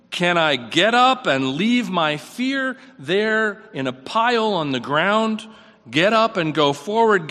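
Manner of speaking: rising exhortation. Acted.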